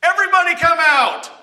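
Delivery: calling out loud and high; Jesus calling Lazarus out of the grave, shouting high; loud cry. Acted. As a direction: cry out to the tomb at full voice. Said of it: "he cried out in a loud voice".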